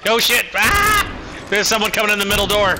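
grenade warning yell. Real, not acted. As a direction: shout the alarm quickly. Enemy rushing in, warning teammate.

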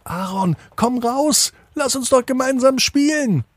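very high, tiny raindrop pleading at the window; small raindrop asking to come in. A narrator's reading. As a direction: pitch way up like a little drop of rain. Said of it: "auch er klopft am Fenster an und er sagt".

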